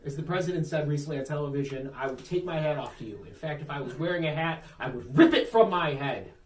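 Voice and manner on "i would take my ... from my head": mock presidential praise, building to emphatic. Mock press conference quote for a hero, increasingly into it. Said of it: "why he got so into it".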